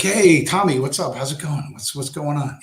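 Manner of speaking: nervous greeting. Retold or imitated. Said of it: "it's like".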